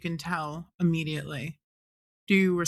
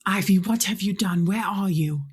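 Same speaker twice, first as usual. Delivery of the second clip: louder, stern mother's demand; sharp worried mother; 4 dB louder than usual. Acted. Mother over the stone demands where her daughter is, sharp and stern. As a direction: scold her like a frightened parent.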